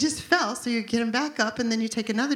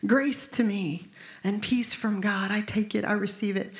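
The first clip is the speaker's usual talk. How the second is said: receiving prayer. Shown as a demonstration. Believer speaking the verse over himself, gently. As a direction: let it settle over you like a blanket. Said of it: "let them lay on you like a blanket".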